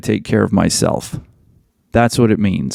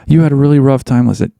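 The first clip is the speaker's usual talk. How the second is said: mock sympathy. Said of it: "You don't go".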